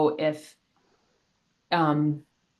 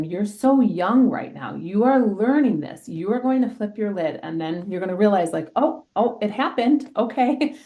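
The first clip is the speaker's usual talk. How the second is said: put-on higher, encouraging voice for young kids; gentle reassuring teacher; 4 semitones higher than usual. Teacher to her students, gentle and encouraging. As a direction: coax them kindly, playing their little realization. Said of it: "I'll say to them".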